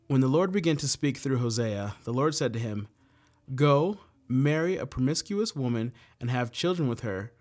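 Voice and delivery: measured, earnest scripture reading. Acted. Leader reading Bible verses to the group, measured and earnest. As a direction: read the verse to the group with gravity.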